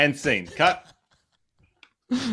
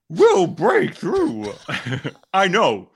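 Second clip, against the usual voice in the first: Bane voice; 4 semitones higher, slower than usual. Acted. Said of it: "My Bane, right?".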